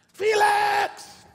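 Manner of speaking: high ringing call of a name; God calling out. Acted. God calling the preacher by name, loud call. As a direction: call him like God at the door.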